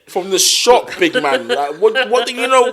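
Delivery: slow, exaggerated London accent; slow London slang. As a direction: stretch each word slowly for a confused cousin. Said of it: "I was saying it slow".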